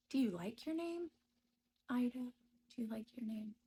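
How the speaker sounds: high, teasing imitation of him; mocking husband. Imitating the husband taunting her about her name, high and teasing. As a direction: needle her with a high mock question. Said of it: "He'd say".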